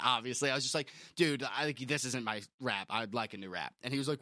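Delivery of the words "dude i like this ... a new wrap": lower, softer, restrained request; toned-down complaint. Retold or imitated. Customer calmly asking deli guy to redo it, toned-down. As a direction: dial the anger right down, low and quiet. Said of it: "I didn't say it like that".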